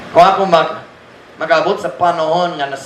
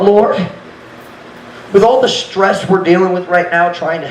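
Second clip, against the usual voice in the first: whiny complaint to God; 6 semitones higher than usual. Retold or imitated. Retold complaining prayer to God.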